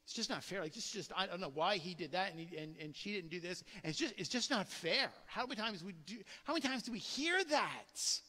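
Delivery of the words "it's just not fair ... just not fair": soft, low mock grumbling; acted-out muttered protest; arguing, pleading your case. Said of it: "Arguing, trying to plead your case".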